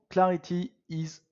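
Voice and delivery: English line in a French accent; accent anglais. Real, not acted. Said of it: "Vous avez vu mon accent anglais?". (anglais avec l'accent français)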